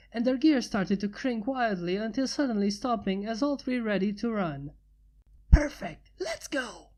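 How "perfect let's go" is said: mild yell. Acted. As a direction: cry out eager to start the race. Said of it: "yelled Rainbow".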